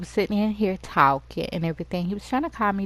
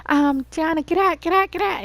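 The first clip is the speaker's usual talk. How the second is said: urgent warning; 9 semitones higher than usual. Pretend. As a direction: shout the warning to get her out. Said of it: "he was like".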